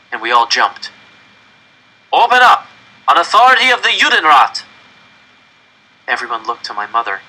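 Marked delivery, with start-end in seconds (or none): 2.1-4.6 loud, high official bellow; commanding shout. Acted. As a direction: bark the order through the door. Police pounding on the door.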